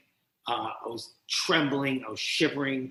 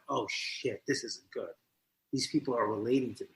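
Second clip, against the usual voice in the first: alarmed inner thought; 5 semitones lower, 10 dB quieter than usual. Retold or imitated. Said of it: "And I'm like".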